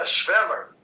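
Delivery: careful German pronunciation of Schwemmer; German word. Shown as a demonstration. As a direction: say "Schwemmer" slowly with a German "shv" sound. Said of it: "but, uh, in German".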